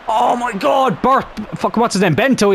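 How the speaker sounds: high, overexcited stumbling over a name; real excitement, tripping over words; excited shout. Real, not acted. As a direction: blurt it out in the heat of the moment. Chance by Maeda and Bento.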